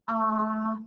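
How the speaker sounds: wide-open dentist ah; open-mouthed ah. Shown as a demonstration. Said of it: "open our mouth and go".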